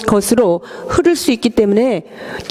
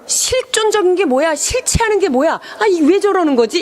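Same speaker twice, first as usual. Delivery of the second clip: higher-pitched, puzzled questioning; baffled men; 4 semitones higher than usual. Retold or imitated. Interpreter voices men who can't understand women, baffled. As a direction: lightly voice men who just don't get it. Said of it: "쟤는 왜 이렇게 저렇게".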